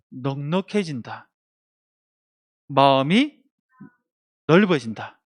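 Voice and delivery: slow call-and-response lead; lead-in for repeating. Shown as a demonstration. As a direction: say it slowly so the children can echo. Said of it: "따라해볼까요?".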